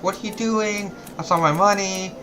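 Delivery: high-pitched imitation of a panicking old lady; mock freaked-out old lady. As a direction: squeak it like a rattled old lady catching you with her cash. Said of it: "kind of freaking out".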